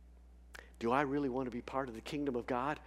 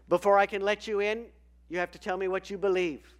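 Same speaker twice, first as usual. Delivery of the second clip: voice of God; 7 semitones higher, 8 dB louder, faster than usual. Acted.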